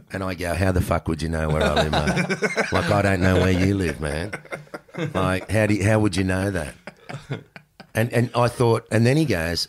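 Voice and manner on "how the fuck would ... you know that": louder, laughing incredulous comeback; mock-outraged, half laughing; laughing retort. His retort to the fan.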